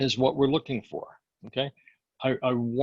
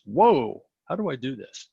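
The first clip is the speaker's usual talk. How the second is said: surprised; 4 dB louder than usual. Shown as a demonstration. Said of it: "this takes a second or two".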